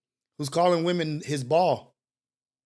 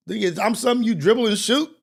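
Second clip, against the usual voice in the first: offended retort; 6 semitones higher, 5 dB louder than usual. Pretend. Voicing an offended woman.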